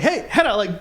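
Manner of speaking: high, pleading mock call; retold scream. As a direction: call for a friend's attention without really yelling. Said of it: "I'm trying to scream".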